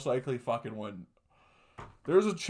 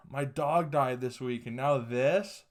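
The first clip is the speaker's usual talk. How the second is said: slowly, mournfully, each word drawn out; slow heartbroken quote; slower than usual. Retold or imitated. Caught man at the door mourning his dog, slow heartbroken plea. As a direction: play the guy as crushed and pleading, slowly. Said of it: "he gives a fucking iconic line".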